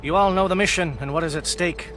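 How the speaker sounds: soft, slow, measured speech to the men; quiet rallying speech with weighty pauses; solemn troop address. Acted. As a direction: address your soldiers gravely before battle. Captain addresses his troops before battle.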